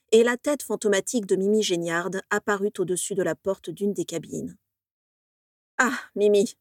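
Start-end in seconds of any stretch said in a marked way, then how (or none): 5.8-6.6 cold. Acted. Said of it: "lança Régulus avec froideur".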